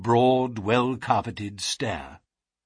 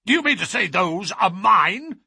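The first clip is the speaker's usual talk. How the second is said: higher, louder indignant question; startled cry; 7 semitones higher, 5 dB louder than usual. A narrator's reading. Patient confronted with footprints on the carpet, startled cry. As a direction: cry it out in disbelief. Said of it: "he cried".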